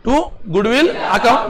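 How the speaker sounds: very slow, word by word; slow dictation. Shown as a demonstration. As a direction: space out TO, GOODWILL, ACCOUNT. Repeats it slowly for the class.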